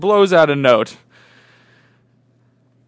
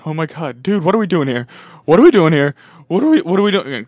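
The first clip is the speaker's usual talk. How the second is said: freaking out; 3 semitones higher, 7 dB louder than usual. Acted. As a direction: act out mounting panic. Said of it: "Matt's freaking out. He's going".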